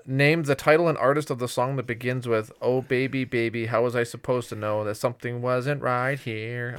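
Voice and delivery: flat robotic reading. Shown as a demonstration. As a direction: read it like a robot, monotone. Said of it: "I had to read it like a robot".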